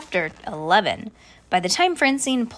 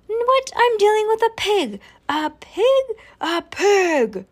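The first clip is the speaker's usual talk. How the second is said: high-pitched, incredulous exclamation; shocked outburst; 11 semitones higher, 4 dB louder, slower than usual. A narrator's reading. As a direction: squeal it in disbelief. Startled caller reacts about a pig.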